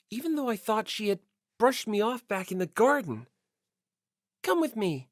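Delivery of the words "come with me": barely inflected. Acted. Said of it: "with the barest of vocal inflection".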